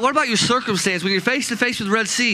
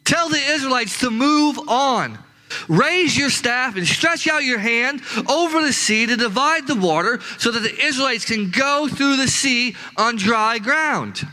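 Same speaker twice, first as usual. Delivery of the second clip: higher, slow voice of God giving orders; lightly voiced God, slow and raised; voicing God; 4 semitones higher than usual. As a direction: command as God, high and measured. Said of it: "I love what God says".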